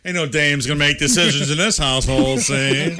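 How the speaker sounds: 1930s voice. Acted. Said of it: "That's my nineteen thirties voice".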